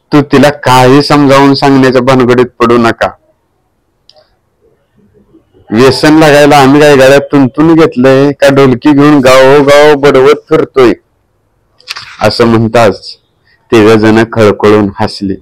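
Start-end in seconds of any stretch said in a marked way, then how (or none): 0.1-10.9 husband's voice, higher, joking protest; a lightly voiced husband mocking the idea; voicing Vijay. A narrator's reading. Husband laughing off wife's worry to his friend, higher voice.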